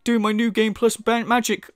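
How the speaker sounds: mock woe over a bad day; put-on moaning sympathy; sarcastic mock pity. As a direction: pretend to feel sorry, laying it on.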